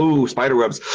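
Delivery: imitating visitors' mild awe; mildly spooked ooh. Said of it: "and they go".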